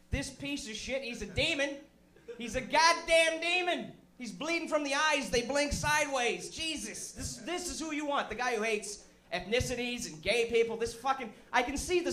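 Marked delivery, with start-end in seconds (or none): 0.1-6.5 ranting shout. Real, not acted. Ranting about Romney.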